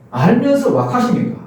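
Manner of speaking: 알면서 왁하십니까 in a Gyeongsang dialect lilt, falling; Gyeongsang accent. Shown as a demonstration. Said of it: "경상도 말로". (경상도 사투리로 알면서 왁하십니까)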